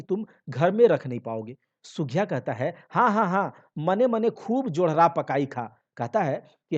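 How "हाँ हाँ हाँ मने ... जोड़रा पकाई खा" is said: mocking laugh. Wife mocks husband's hopes.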